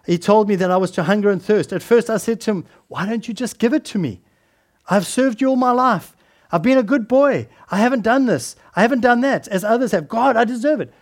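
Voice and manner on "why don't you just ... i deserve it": a hint of an entitled teenager whining at God; presumptuous teen. Teenager demanding God give him the fire, mock presumptuous. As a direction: push the demand, higher and lightly indignant. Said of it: "this presumptuous sixteen-year-old".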